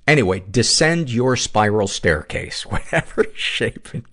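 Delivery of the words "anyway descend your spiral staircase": normal talking voice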